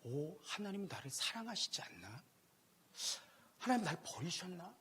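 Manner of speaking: soft, slow anxious inner question; hurt inner doubt. Retold or imitated. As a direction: ask it quietly, afraid of the answer. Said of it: "제 마음 깊은 곳에". (작고 느리게 불안한 속마음)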